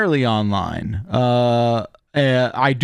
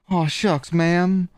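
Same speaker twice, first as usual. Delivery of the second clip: a hint of a Western drawl; lightly voiced cowboy; 4 semitones higher, slower than usual. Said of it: "sounds almost like a ... Western".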